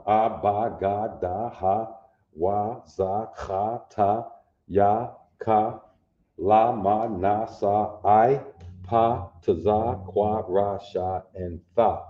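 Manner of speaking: whole alphabet of syllables A, ba, ga, da recited in a steady chant; primary letter sounds. Shown as a demonstration. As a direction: run through each primary sound. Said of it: "basic primary sound".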